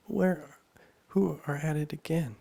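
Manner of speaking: put-on high, loud girl's question; Alice asking. A narrator's reading. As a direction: ask up high as curious Alice. Alice asks in story.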